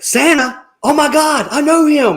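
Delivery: high, giddy fanboy squeal; gushing Buddy excitement. Retold or imitated. Buddy hears that Santa is coming, high giddy squeal. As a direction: gush like a kid meeting his hero. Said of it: "he's like".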